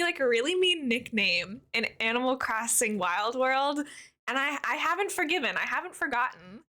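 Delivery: talking through a mouthful of chocolate; words round a bite of chocolate; mouth full. Real, not acted. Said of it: "don't wanna talk with my mouth full of chocolate".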